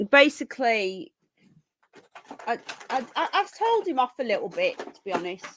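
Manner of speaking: talking through a yawn; words stretched by yawning. Real, not acted. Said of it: "why have I got a yawning fit".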